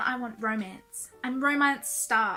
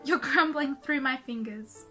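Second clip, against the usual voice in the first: reading angsty lyrics aloud; embarrassed reading aloud. Acted. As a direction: read your teen song aloud, cringing. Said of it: "read out to you guys one of my angsty songs".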